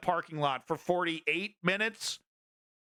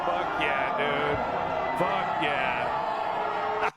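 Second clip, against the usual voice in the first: real cheering; 4 dB louder, much slower than usual. Real, not acted. Cheering along with the clip.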